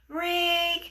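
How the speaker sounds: high, held ring on one note; imitated phone ring. Phone rings during a couple's dinner, imitated ringing.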